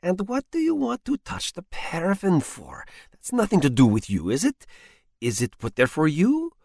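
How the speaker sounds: high, rising scolding; scolding wife. Acted. Wife scolds husband over the paraffin, high and rising. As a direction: scold him for wasting paraffin.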